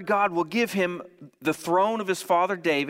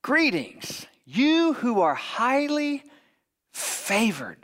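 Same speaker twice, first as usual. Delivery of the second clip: higher, very slow mock Scottish accent; Sean Connery; 5 semitones higher, slower than usual. Angel Gabriel greeting Mary, drawn-out mock Scottish accent. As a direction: stretch the greeting grandly in a put-on Scottish accent. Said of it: "imagine that accent".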